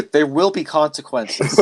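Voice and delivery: slow, high mock-menacing line; ominous man in black. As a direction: ham up the creepy threat.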